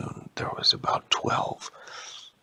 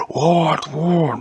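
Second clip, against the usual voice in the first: sudden high startled "what"; alarmed Ents hearing a snap; 6 semitones higher, 5 dB louder than usual. Acted. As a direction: jump at the sound, alarmed.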